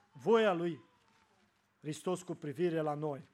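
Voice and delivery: solemn, carefully read scripture phrase; reading beautifully. Shown as a demonstration. Preacher reads the verse to the congregation, solemn and measured. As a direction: give each word weight as you read. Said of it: "citesc cuvântul acesta frumos".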